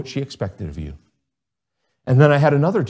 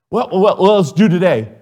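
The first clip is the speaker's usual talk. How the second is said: offhand teacher; 6 semitones higher, 6 dB louder than usual. Retold or imitated. Teacher voiced in story.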